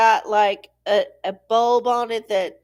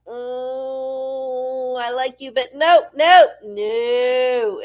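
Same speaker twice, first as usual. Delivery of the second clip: lightly voiced brush-off, louder at the end; a hint of a put-on dismissive voice; mock rejection; 4 dB louder, much slower than usual. Mocking the tech rejecting the man, louder toward the end. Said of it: "they were like".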